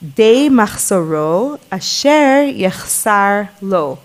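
slow, careful reading of a verse; reciting a Torah verse slowly to the listener; slow recitation. Real, not acted. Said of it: "it says".

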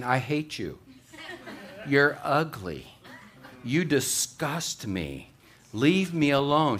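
lightly voiced rude parrot, slow; foul-mouthed parrot. Parrot insulting its new owner, lightly voiced and drawn out. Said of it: "the bird's saying".

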